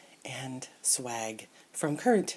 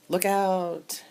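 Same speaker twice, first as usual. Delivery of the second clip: drawn-out, higher call; mock warning call; 5 semitones higher than usual. Reading a toy's speech balloon, mock warning call.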